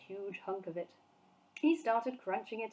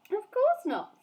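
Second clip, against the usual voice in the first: emphatic reassurance; 13 semitones higher, 8 dB louder, slower than usual. A narrator's reading. Sophie reassuring.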